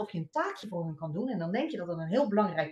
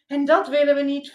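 firm outburst; 6 semitones higher, 11 dB louder than usual. Acted. Mother ranting at herself.

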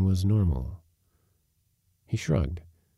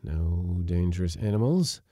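ordinary delivery

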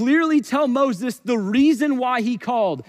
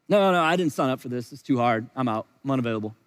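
whiny quitter; 10 semitones lower, 3 dB quieter, much faster than usual. Pretend. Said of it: "quitting believer voiced".

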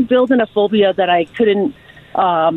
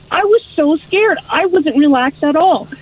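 retold fear; 6 semitones higher than usual. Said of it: "I'm like".

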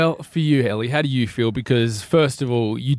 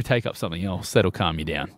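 whispering; 8 semitones lower, 5 dB quieter than usual. Real, not acted. Secretive suggestion aside.

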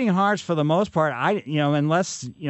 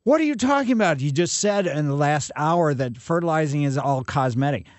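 indignant listener. Retold or imitated. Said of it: "So, you".

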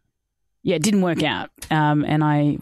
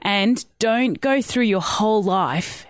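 slow, emphatic telling-off, pitch lifting; retold tough-love lecture, not truly shouted; mild mock yell; 3 semitones higher, slower than usual. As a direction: drive each phrase home like a scolding friend. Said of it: "like, yelled at me".

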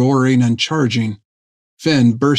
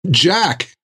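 shouted; 5 semitones higher than usual. Acted. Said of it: "Finn shouted".

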